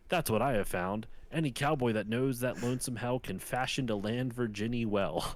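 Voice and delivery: lightly performed cowboy poem, measured verse rhythm; poem recitation. Retold or imitated. Podcaster reading a lonesome cowboy's poem to friend, lightly recited. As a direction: recite it as earnest rhymed verse.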